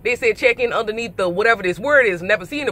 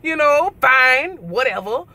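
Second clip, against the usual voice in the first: annoyed; 3 semitones higher than usual. Retold or imitated. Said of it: "I'm mad now".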